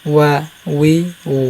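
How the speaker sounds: lip-rounded w opening out in ওয়া, উই; Arabic Waw glide from pursed lips in ওয়া, উই, উ. Shown as a demonstration. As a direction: round the lips, then spread them for ওয়া, উই, উ. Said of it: "ঠোঁটটা গুড়ুল করে দিবেন".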